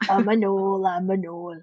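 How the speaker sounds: beastly snarling gnoll. Acted. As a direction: snarl it like a hyena creature. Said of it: "this is my gnoll voice".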